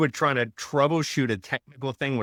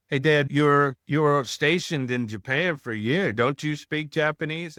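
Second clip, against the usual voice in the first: mock child's eager question, pitched up; imitating his kid; 6 semitones higher than usual. Kids asking their dad.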